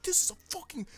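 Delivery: very high excited squeal; mock fanboy shriek over a great panel; hyped squeal. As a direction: squeal it like a thrilled fan. Retelling hyped reaction reading manga.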